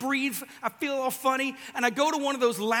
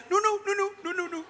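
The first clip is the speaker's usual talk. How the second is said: mock protest; 9 semitones higher than usual. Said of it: "and I was like".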